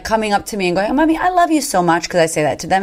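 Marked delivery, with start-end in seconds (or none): 1.0-2.1 put-on high, sweet three-year-old voice; much higher, childlike declaration of love; little son. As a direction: imitate a small boy adoring his mum. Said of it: "he's, like, three".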